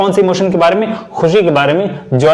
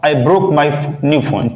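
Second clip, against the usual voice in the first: slow demo; much slower than usual. Shown as a demonstration. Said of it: "अगला है आह".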